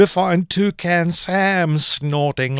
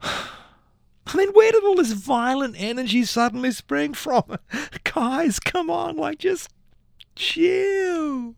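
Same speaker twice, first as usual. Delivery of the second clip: soft pleading; 12 semitones higher, 3 dB quieter than usual. Acted. Pleading with violent cereals.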